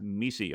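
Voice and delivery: "mesi" echoed as MEE-see; pronunciation of MECE. Shown as a demonstration. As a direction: repeat "mesi" in two syllables, MEE-see. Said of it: "however the right way to pronounce that".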